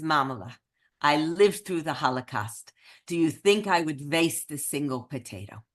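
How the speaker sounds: put-on understated take on an Eastern European accent; bad Eastern European accent. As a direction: make the point soberly in a mock Eastern European accent. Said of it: "I do the absolute worst Eastern European accent".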